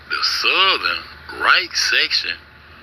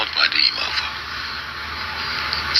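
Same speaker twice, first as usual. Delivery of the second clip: muttered aside; 7 semitones lower, 5 dB quieter than usual. Real, not acted. Aside about the people on screen.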